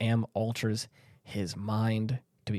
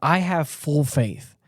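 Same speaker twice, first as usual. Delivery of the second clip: impassioned pleading; 4 semitones higher, slower than usual. Pretend.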